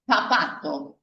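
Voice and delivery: zapato con la z como th inglés; zeta como theta. Shown as a demonstration. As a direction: decir "zapato" con la z entre los dientes. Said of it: "Como si fuera la palabra theater del inglés". ("zapato" con z interdental)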